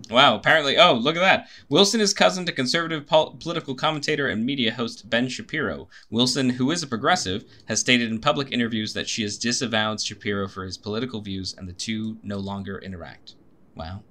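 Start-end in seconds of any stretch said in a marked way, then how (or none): 1.7-13.3 reading an article out to a friend; reading aloud. Real, not acted. Cohost reads cousin's bio off the screen, reading aloud.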